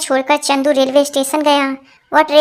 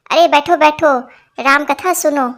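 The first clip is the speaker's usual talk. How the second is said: a half-shout across the crowd of women; shouted call. Acted. Vandana calling her husband back to the katha, shouting. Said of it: "वंदना भाभी चिल्लाई".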